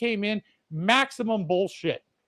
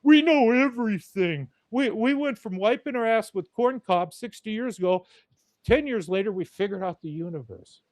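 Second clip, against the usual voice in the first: smug scientist parody; 4 semitones higher than usual. Retold or imitated. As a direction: puff up and boast like you solved it all. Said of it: "deGrasse Tyson bastardized the whole fucking field".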